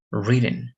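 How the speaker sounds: put-on "written" with a short I, as in "kid"; short vowel. Shown as a demonstration. Teacher contrasting it with ride, short I in "written".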